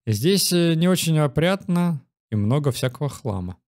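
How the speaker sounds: calm storyteller reading a scene; story narration. Acted. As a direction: narrate it like a game text. Reads the game's story text.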